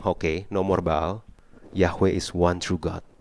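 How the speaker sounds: understated reverent confession; quiet awed confession. Acted. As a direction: hush it like people on their knees. People's confession voiced.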